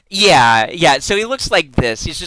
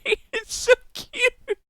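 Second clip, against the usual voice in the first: cutesy squealing; 12 semitones higher, slower than usual. Real, not acted. Streamer gushing at a bunny-pumpkin fusion, high squealing baby talk. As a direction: coo at it like a tiny pet, much higher and dragged out.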